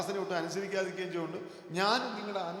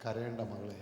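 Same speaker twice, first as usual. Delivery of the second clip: low, soft comforting words; quiet, lowered reassurance; gentle consoling; 10 semitones lower, 5 dB quieter than usual. Acted. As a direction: hush a grieving daughter tenderly. Jesus consoles a weeping widow.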